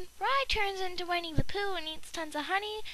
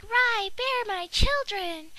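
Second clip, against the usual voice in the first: slow, drawn-out, a bit louder; dramatic plea; 3 semitones higher, 4 dB louder, much slower than usual. Pretend. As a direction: plead grandly, stretching every word. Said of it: "Crystal's gonna be all like".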